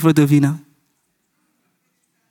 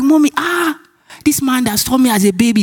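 high-pitched embarrassed complaint to mother; re-enacted dismayed protest, pitched up; mock protest; 6 semitones higher than usual. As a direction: plead in a raised, whiny-child pitch. Retelling own protest to mother.

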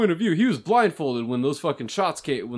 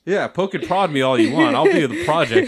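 like a country singer; 4 dB louder than usual. Pretend. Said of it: "all Willie Nelson-like and shit".

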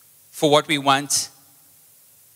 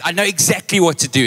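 higher-pitched retold burst of resolve; sudden resolve; 6 semitones higher, 4 dB louder than usual. Friend tells the pastor he knows what to do, with sudden resolve. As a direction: lightly act out a sudden realisation.

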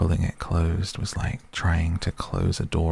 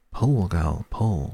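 whispery telepathic voice; slower than usual. A narrator's reading. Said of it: "whispered another".

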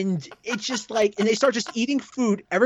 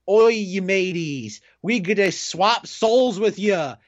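shanty sea pirate. Retold or imitated. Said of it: "talking like shanty sea pirates".

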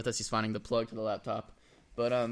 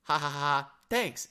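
higher, chirpy fake laugh then a bright thanks; mock girl's text reply; 3 semitones higher, 4 dB louder, slower than usual. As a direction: mimic her cheery brush-off text. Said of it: "she hits you with the".

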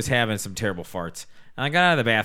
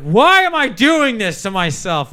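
slow, louder and higher lament; mock despair; 10 semitones higher, 8 dB louder, slower than usual. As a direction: wail it at yourself, slowly. Berating himself in shower.

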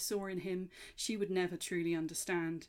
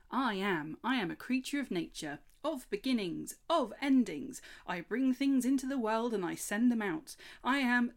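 a little brighter and louder, eager creature; an excited fawn proclaiming his nature; lightly voiced cheerful fawn; chirruping fawn; 5 semitones higher, 6 dB louder than usual. A narrator's reading. Fawn Chubbs speaking in the story.

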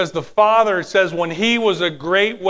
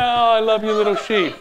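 rejoicing shepherd; 3 semitones higher than usual. Acted. God the shepherd rejoicing over the lost sheep, tender cooing. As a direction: coo over the found lamb with delight. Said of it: "he picks the sheep up rejoicing".

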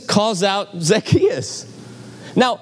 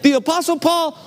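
incredulous; 9 semitones higher than usual. Real, not acted. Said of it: "So I'm like".

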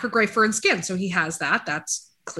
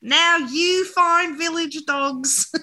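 laughing; 10 semitones higher, 3 dB louder, much slower than usual. Real, not acted. Laughing through the accent.

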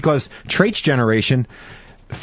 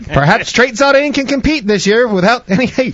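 grave 1940s war broadcast; 9 semitones higher, 4 dB louder than usual. Acted. Mock bulletin continues.

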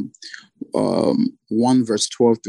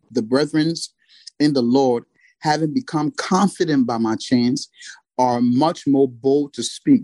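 scripture reading. Acted. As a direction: read the verses with reverence. Reads Philippians passage aloud.

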